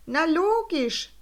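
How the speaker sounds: high, slow Swiss exclamation; old balloonist agrees gladly. A narrator's reading. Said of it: "rief Wendelinus Sprüngli".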